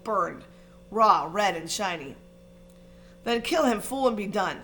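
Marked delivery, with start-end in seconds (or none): 3.2-4.6 a touch of a furious screech. Acted. Voldemort commands Quirrell, mild furious screech. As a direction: snap the order impatiently. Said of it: "screeched Voldemort".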